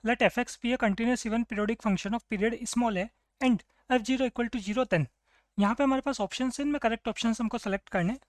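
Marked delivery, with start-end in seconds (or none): 0.1-5.0 slow, deliberate reading of the question aloud; dictating the problem slowly to the class. Shown as a demonstration. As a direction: read every word out slowly for the students. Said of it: "let's see this question".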